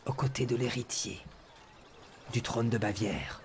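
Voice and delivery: lightly voiced crowd announcer; town crier. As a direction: call out the rumour to the crowd. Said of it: "le crieur d'Inumeria qui est debout sur une estrade en train de parler à la foule".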